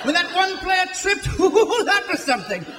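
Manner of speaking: lightly voiced British soccer commentator; mock British play-by-play announcer, riveted by nothing. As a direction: play the breathless TV commentator over a dull match.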